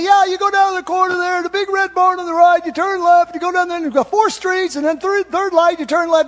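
high, loud put-on voice of a helpful local; local giving directions. Local directing a lost driver, high put-on voice.

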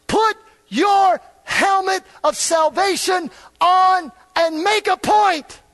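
high, loud, slow shouted exhortation; fiery pulpit shout; preaching at full force. Acted. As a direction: thunder it at the congregation. Preaching climax.

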